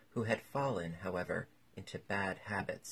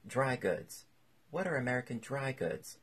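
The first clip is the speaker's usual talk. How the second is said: higher-pitched puzzlement, leaning hard on "are"; wondering, stressed ARE; 5 semitones higher than usual. A narrator's reading. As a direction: ask in wonder, accentuating the verb "are". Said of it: "in wonder and accentuating the verb".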